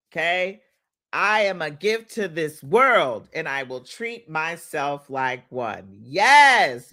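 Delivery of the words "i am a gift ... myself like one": slow, emphatic affirmation chant; slow preacher-like affirmations; affirmation leading. Acted. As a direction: lead the congregation in declaring it, slowly. Leads affirmations for viewers to repeat.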